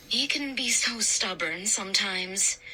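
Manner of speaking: understated, slightly hushed apology; apologetic. A narrator's reading. Mom excusing Josh to Mister Dawes, apologetic. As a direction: excuse the boy in a put-on voice. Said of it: "Mom said apologetically".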